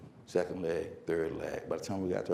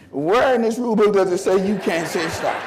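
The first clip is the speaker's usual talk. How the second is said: put-on louder, indignant teen protest; mock sixteen-year-old; 3 semitones higher, 6 dB louder than usual. Coach arguing disqualification at podium, mock teenage protest. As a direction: lightly play a teenager arguing the rules. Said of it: "I became a sixteen-year-old".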